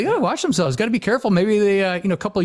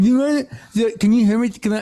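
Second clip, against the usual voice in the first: a singer's grill voice; 3 semitones higher than usual. Retold or imitated. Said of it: "She has a grill in".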